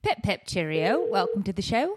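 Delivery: lightly put-on British accent, cheery; a jolly hint of a British host; mock British accent. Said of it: "you have to do a British accent".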